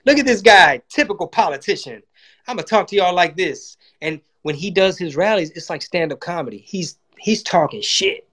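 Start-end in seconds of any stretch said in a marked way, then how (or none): 0.1-3.8 lightly hammed-up Trump brag; imitating Trump. Comic mimicking Trump mocking typical politicians at a rally. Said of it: "and he's like".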